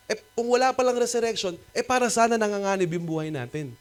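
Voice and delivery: Paul arguing. Retold or imitated. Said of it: "sabi ni Paul".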